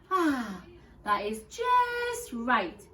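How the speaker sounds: slow, content sigh of relief. Acted. Goldilocks finding the tiny bed, slow contented sigh. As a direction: sink happily into it. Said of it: "said Goldilocks".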